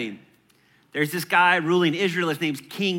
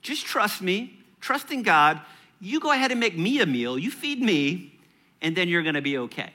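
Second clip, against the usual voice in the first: Elijah reassuring the widow; 4 semitones higher than usual. Retold or imitated. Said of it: "He says".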